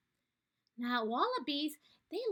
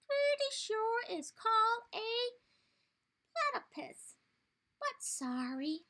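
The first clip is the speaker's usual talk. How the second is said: put-on old bandicoot; 7 semitones higher than usual. Bandicoot tells the animals the name, kindly.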